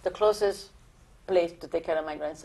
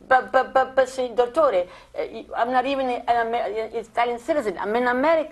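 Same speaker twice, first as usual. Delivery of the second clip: imitating a flustered son, pitched higher; stammering protest; 4 semitones higher than usual. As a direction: stammer out an objection, retold with insistence. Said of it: "my son kept saying".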